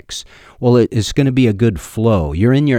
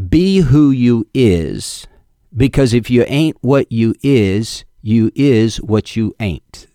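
drawn-out folksy quote; 2 semitones higher, slower than usual. Acted. Folksy quote in broken grammar.

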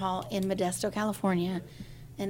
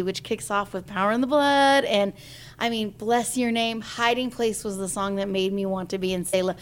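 usual speaking voice

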